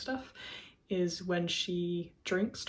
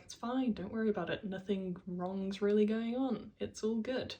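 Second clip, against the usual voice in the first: mock reassurance; 3 semitones higher than usual. She invalidates Henry's concerns, mildly mimicked dismissive reassurance. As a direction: play down the worry as if nothing matters. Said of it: "she invalidates his concerns by making it seem like".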